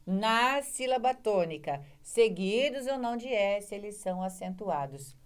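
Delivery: loud, emphatic recitation of a rule; reciting by heart. Shown as a demonstration. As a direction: recite it firmly, leaning on each key phrase. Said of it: "a regra do hiato que é de cor".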